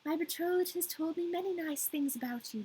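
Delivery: a touch of a grand court crow; fancy court crow. Acted. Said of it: "this is the fancy court crow".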